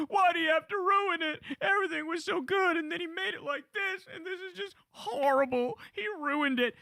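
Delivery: high, hammed-up bawling; mock crying. Mimicking Alex Jones upset over bombed Syria, exaggerated high-pitched crying. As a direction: wail it in a high, fake weepy voice. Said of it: "he's crying even more aggressively".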